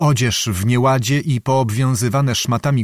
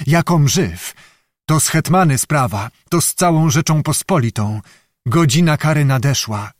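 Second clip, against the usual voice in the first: frenzied exclaiming; 2 semitones higher than usual. Acted. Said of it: "bić się w piersi z całej siły i wołać".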